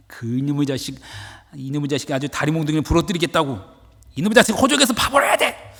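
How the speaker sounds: angry father. Acted. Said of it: "그 역정을 내던 아버지의 마음".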